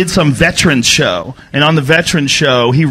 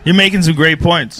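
sarcastic, understated compliment; sarcastic praise. Real, not acted. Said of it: "I hear the sarcasm in your voice".

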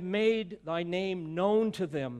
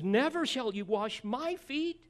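firm refusal; 8 semitones higher, 3 dB louder than usual. Pretend. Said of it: "In verse eight, he says".

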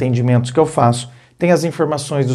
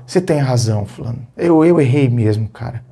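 calm admission; 4 semitones lower than usual. Shown as a demonstration. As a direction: back down gently. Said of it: "você fala".

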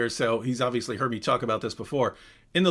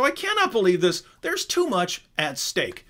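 Craig impression; 6 semitones higher than usual. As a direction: ham up an outraged scholar. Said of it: "Craig starts making fun of this".

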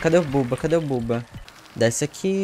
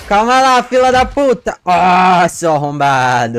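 furious shout; 3 semitones higher, 9 dB louder than usual. Real, not acted. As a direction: scream insults at the survivor. Catching a survivor, yelling insults.

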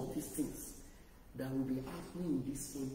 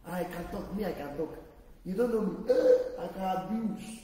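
mock scoffer; 5 dB louder than usual. Mocking a careless scoffer.

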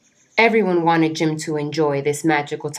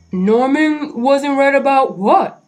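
put-on slow old animal voice; 8 semitones higher, 5 dB louder than usual. Norman's slow voice.

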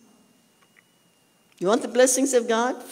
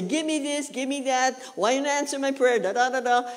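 put-on higher, childish list of demands to God; mock demanding prayer; 4 semitones higher than usual. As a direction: mimic a greedy believer rattling off wants. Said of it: "now you don't say".

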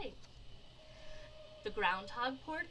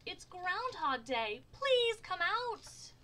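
high, drawn-out calling; sing-out storybook shout, stretched words; crowd shout; 10 semitones higher, 5 dB louder, slower than usual. A narrator's reading. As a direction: call it out slowly like a crowd, lightly shouted. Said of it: "added with a shout".

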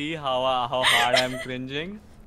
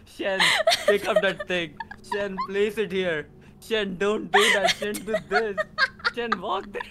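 bossy instructing voice; 4 semitones higher than usual. Retold or imitated. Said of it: "guiding you like a baby".

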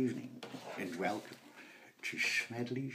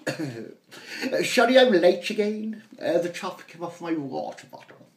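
higher, louder apologetic schoolboy; hammed-up young son apologising; sheepish posh boy; 6 semitones higher, 10 dB louder than usual. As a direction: mumble an excuse for being late.

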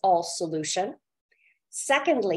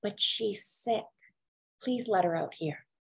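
retold whisper; 6 dB quieter than usual. Driver quietly pleading with armed guards, hushed. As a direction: hush it like a secret plea to the guards. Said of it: "he whispered to the guards".

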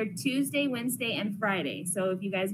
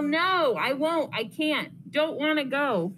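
whiny yell; 4 semitones higher, 4 dB louder, slower than usual. Acted. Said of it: "I yell".

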